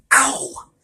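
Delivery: sharp high yelp of pain; a hurt little yelp; high whiny ow; whined ow. A narrator's reading. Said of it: "Jay whined".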